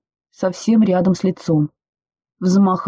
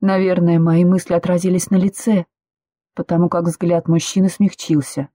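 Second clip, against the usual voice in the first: plain reading voice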